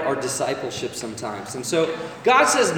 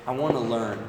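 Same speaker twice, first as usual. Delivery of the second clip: sincere, humble; 5 semitones lower than usual. Retold or imitated. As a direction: gently ask like you truly want to learn. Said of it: "sincere, humble".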